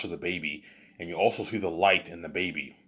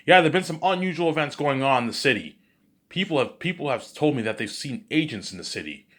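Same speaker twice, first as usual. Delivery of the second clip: radio announcer; 6 semitones higher, 4 dB louder than usual. Acted. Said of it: "you hear people talking on the radio".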